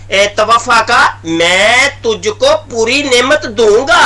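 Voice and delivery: reads the translation out slowly and evenly; slow quoted reading. Shown as a demonstration. Debater slowly reading the opponent's translation aloud, measured. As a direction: lets each word of the quote land. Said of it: "Mirza Qadiani ने तर्जुमा किया है".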